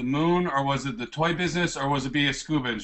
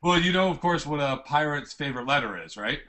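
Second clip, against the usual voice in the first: pirate voice; 9 semitones higher than usual. Acted. Pirate bit, high silly voice.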